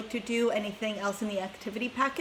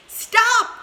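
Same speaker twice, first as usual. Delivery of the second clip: sudden loud cry of stop; old grandpa shouting stop; 13 semitones higher, 12 dB louder than usual. A narrator's reading. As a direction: bark it out to halt them. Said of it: "shouted Grandpa Joe".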